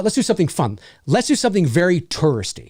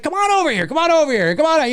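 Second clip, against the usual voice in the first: excited host calling; 10 semitones higher, faster than usual. Retold or imitated. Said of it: "He's like".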